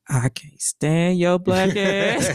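put-on slow, drawn-out southern accent. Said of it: "I give my southern accent voice".

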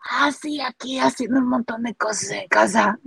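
croaky, half-asleep voice from the grave; lightly imitating a groggy ghostly voice; Laura Bozzo voice from beyond the grave. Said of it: "con voz de ultratumba tipo Laura Bozzo".

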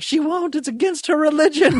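squeaky high-pitched quote; high mock voice. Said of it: "And I was like".

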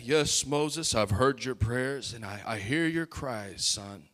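gentle God voice. Retold or imitated. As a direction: speak as a tender fatherly God. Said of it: "you think that the Lord would respond and say".

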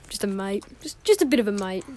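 put-on playful Australian accent. Showing off the accent to friends, mock Australian. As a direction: lean into Aussie vowels on "mate". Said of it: "Just really good Australian accent".

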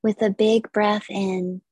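measured, unhurried yoga nidra guidance; guided meditation. Acted. Yoga teacher leading listeners into stillness, guided meditation. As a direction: guide listeners through relaxation with long pauses.

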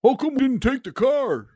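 high-pitched caricature of a Chicago-area woman; Downers Grove woman's accent. Acted. Podcaster imitating a local woman, high Chicago-accented voice. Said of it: "And the same voice, actually".

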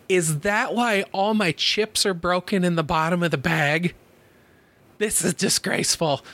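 lightly imitated old lady telling someone off; mild mock indignation; mock scolding. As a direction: retell an indignant scolding, stressed but not shouted. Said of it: "like, scolding somebody".

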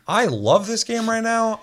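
high, slow, laughing through it. Real, not acted. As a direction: gush through leftover laughter. Laughing after joke about bugs.

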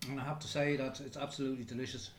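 talking through a mouthful; chewing while talking. Real, not acted. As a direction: mouth full of plum. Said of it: "The boys can't talk 'cause he's eating".

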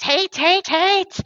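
hammed-up villain chanting hate; imitating a screaming villainess, pitched high. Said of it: "she just screams".

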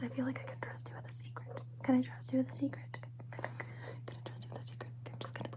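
whispering a secret. Acted. Confiding a secret to listener.

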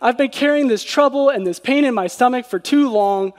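understated exasperated plea; bold complaint. Acted. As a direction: lightly voice someone fed up with God. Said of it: "That seems pretty bold".

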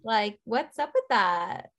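pretending to be casual while fishing for gossip; casual nosy ask. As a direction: fake casual, high then slow. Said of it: "How do you casually be like".

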